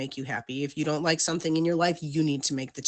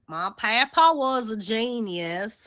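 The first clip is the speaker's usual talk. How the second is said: imitating Wes; 4 semitones higher, slower than usual. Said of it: "That's his favorite line".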